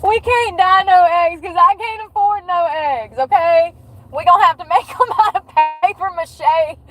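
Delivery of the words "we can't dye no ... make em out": high, pushed-up complaint; fed-up sarcastic rant; can't-afford-it exasperation; exasperated. Real, not acted. Exasperated complaint about egg prices.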